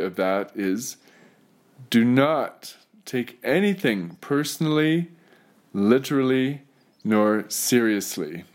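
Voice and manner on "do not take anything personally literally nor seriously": deliberate emphasis landing on "seriously"; stress on SERIOUSLY. Real, not acted. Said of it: "Emphasis on the seriously".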